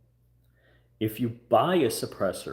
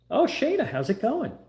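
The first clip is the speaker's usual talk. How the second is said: much higher, chirpy pretend greeting from the congressman; mock friendly congressman; 4 dB louder than usual. Congressman happily greets the caller he already knows, in a high mock voice. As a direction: play the congressman cheerfully welcoming a caller.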